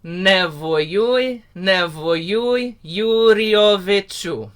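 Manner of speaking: careful recitation of "Yuriovichu"; spoken lyrics. Shown as a demonstration. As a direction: say "Nevoyui, nevoyui, Yuriovichu" slowly and clearly. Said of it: "everyone say that with me".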